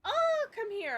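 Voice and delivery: high cooing pet talk; cooing at the cat. Real, not acted. Streamer scooping up her cat, high cooing.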